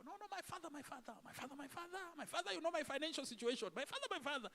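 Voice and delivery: hammed-up begging, calling my father over and over; mock pleading prayer. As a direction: plead like a desperate worshipper.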